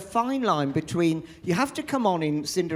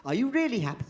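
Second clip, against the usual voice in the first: sister pressing; 8 semitones higher, much faster than usual. Retold or imitated. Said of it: "sister presses Cinderella".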